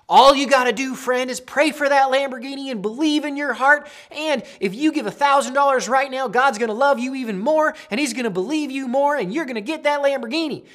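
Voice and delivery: loud, high-pitched Southern televangelist; Southern accent. Acted. Televangelist promising a Lamborghini for money, Southern accent. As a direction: pitch it like a Southern prosperity preacher. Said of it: "went to a Southern accent there".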